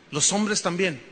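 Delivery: ordinary talk, nothing marked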